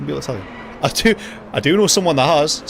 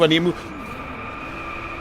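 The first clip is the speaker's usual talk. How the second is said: slow, voiceless whisper; slow urgent whisper to yourself; breathless whisper; 3 semitones higher, 6 dB quieter, much slower than usual. Real, not acted. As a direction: breathe it out under your breath. Racing, urgent self-talk.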